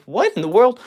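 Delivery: startled disbelief. Real, not acted. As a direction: caught off guard by the chat. Reacting to something odd in chat.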